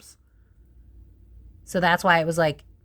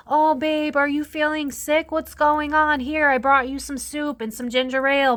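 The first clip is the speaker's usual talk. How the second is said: higher, sugary caring voice; sweet fake husband; 8 semitones higher than usual. Husband faking care for his sick partner, sugary and higher. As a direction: play the doting husband bringing soup, too sweet. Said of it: "was like".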